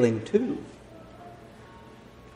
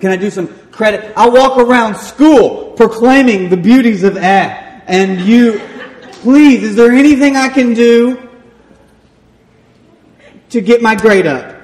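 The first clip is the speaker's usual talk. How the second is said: louder, higher mock-desperate begging; desperate pleading; 6 semitones higher, 8 dB louder than usual. Student begging his teacher for a better grade, desperate pleading. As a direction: plead theatrically, building on "please".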